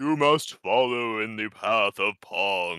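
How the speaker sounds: deep, dropped, proclaiming voice. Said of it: "It's this deep, booming voice".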